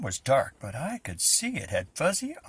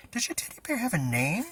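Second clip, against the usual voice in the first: repeated a bit louder, pitch up; 7 semitones higher than usual. Acted. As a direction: say it again, louder so he hears. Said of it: "I said louder".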